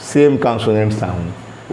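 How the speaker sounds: slow, stretched-out phrase; deliberate slow dictation. Shown as a demonstration. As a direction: dictate each word slowly. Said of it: "teacher dictating slowly".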